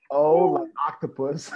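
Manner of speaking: lightly voiced mom spelling out letters; a hint of mom spelling letter by letter; fond mock of mom's spelling. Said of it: "like my mom used to say".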